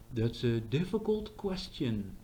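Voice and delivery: serious tone. Shown as a demonstration. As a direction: weigh each word like a thoughtful answer. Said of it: "if it says something serious".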